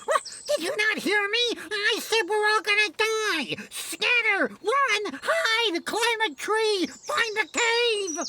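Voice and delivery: panicked yelling. Acted. Panicked alarm shouting orders.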